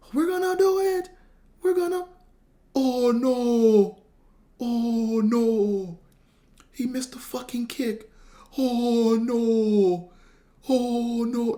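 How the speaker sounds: put-on despairing wail, each "no" stretched long. Retelling how a man reacted to a missed kick, imitating an anguished cry. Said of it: "He was like".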